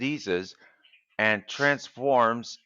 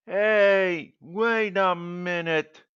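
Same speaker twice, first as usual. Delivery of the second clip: sudden realisation; 9 semitones higher, 6 dB louder, much slower than usual. Acted.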